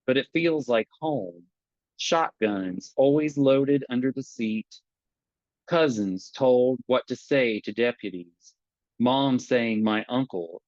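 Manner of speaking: measured poem reading with long pauses; poetry reading. Acted. Poet reading his long poem to the audience, measured. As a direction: read it slow and deliberate.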